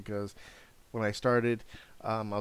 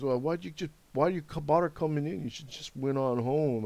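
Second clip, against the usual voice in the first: higher-pitched mock French accent; 5 semitones higher, 4 dB louder than usual. French coworker asking why he bothered coming in, imitated French accent. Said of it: "in a French accent".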